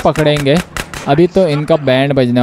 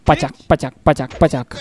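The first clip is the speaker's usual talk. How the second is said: spoken "pachak" hit noises, short and evenly repeated; imitated squelch; 3 semitones lower, 5 dB quieter than usual. Player adding his own hit sounds while attacking, mock squelches. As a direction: voice each blow as a little squelch. Voicing the hits in game.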